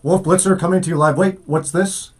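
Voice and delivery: mock breaking-news anchor, rising on Phoenix; a hint of a live TV anchor; Wolf Blitzer impression. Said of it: "You just imitated Wolf Blitzer".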